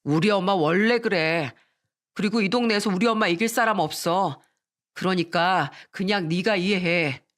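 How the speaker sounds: unbothered husband, unhurried; casual, matter-of-fact dismissal; nonchalant. Acted. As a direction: shrug it off, drawing out the words. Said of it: "아무렇지도 않은 목소리로".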